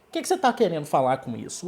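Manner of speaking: quick, run-together asking in Portuguese; fast casual question. Shown as a demonstration. Teacher shows a casual Portuguese question, fast. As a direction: rattle it off as an everyday question. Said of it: "Depending on the intonation".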